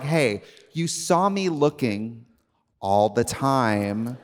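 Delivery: slow, low, drawn-out accusation; mock confrontation. Acting out confronting old crushes.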